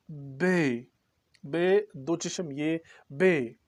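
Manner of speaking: slow, careful बे; बे, दो चश्म ये बे said slowly; slow letter demo. Shown as a demonstration. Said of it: "ये पढ़ते हैं हम उर्दू हरूफ तहजी में".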